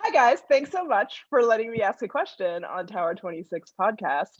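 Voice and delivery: livelier greeting with a punched opening; vivacity in the voice. Shown as a demonstration. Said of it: "ask the question with vibration or vivacity".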